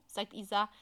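ordinary delivery

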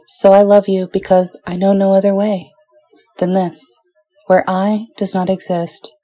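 tender, measured poetry recital; poem reading. Acted. Reads Neruda love sonnet.

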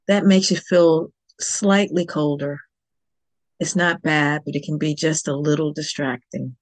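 measured meditation guide, long pauses between phrases; calm instructions with room to breathe; guided meditation. Real, not acted. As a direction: guide listeners unhurriedly into stillness.

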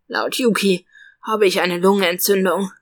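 rough, hoarse sick voice. Acted. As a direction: rasp it out like a sick man. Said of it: "antwortet er mit rauer Stimme".

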